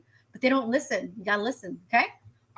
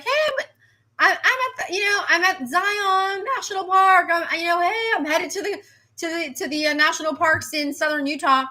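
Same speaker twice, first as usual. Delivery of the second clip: breezy influencer voice, much higher at first, then settling; 5 semitones higher than usual. Retold or imitated. Forecaster mocking an influencer posting from Zion, high and breezy. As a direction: play a carefree influencer bragging about the park.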